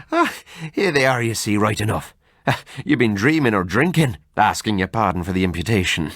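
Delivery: lightly voiced Irish friend, laughing it off; mild Irish brogue mocking old wives' tales; hearty Irish doctor, amused. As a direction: scoff like a jolly Irishman. Narrator voices Kelly.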